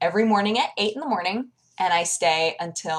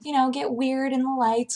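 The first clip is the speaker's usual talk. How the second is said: makeup lady voice; 7 semitones higher than usual. Retold or imitated. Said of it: "She was like".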